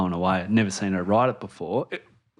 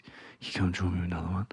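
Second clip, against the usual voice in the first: put-on whispered child request; 4 semitones lower, 8 dB quieter, faster than usual. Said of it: "God, you do her voice well".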